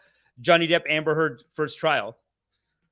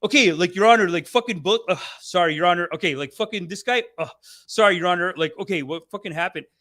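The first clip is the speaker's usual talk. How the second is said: lightly acted courtroom stumbling, blurting then apologizing; a hint of a hapless defendant catching himself; flustered swearing defendant; 4 dB louder than usual. Defendant keeps swearing before the judge, lightly flustered. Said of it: "he just keeps swearing".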